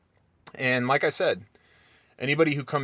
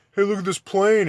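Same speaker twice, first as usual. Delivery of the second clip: mock flat earther; 7 semitones higher, 4 dB louder than usual. Mocking a flat earther's claim.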